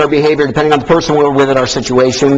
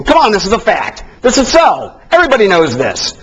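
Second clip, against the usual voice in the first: a touch of pushy certainty, pitched higher; emphatic statement; 5 semitones higher than usual. Shown as a demonstration. Demo of a direct person stating a fact, emphatically. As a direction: insist it's a fact, leaning on each word. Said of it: "Direct people make emphatic statements".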